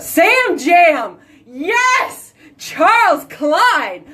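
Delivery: high, loud celebration of the name; thrilled high shout of the name; excited cheer. Real, not acted. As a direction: cheer his idea like he won a prize. Husband suggests show name.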